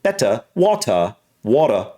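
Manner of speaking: British endings, R turned to an "ah"; British accent. Shown as a demonstration. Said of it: "R is turning into a version".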